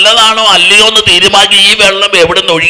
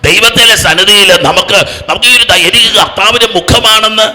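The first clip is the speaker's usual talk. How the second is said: full-force preaching; 4 semitones higher than usual. Real, not acted. Preacher rousing a congregation to shout hallelujah, full-force preaching. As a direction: proclaim it to a crowd, driving each phrase.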